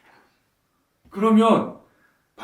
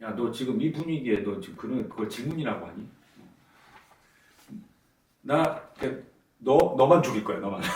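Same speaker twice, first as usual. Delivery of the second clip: mild sarcasm. Retold or imitated. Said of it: "일종의 비꼰 거예요".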